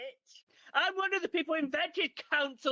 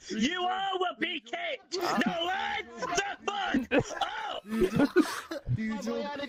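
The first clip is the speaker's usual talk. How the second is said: bossy bouncer; 3 semitones higher, slower than usual. Acted. Bouncer ordering queue.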